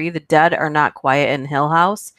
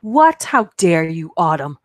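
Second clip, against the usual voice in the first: sharp, indignant gasp of disbelief; playfully offended, pitch jumping up; mock outrage; 4 dB louder than usual. Mock outrage at a chat guess.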